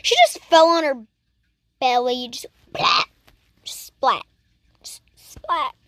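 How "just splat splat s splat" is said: breathy whispered splat, over and over. Real, not acted. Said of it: "whispered repeated splat".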